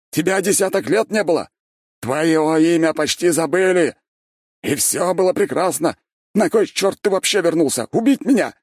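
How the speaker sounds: high, loud raving; furious rant. A narrator's reading. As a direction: rage at the returned Archmage. Mad emperor ranting at hero.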